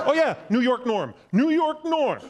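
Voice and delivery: hint of an excited fan; mock gushing fan. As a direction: gush like an Instagram fan. Mocking dog's fans.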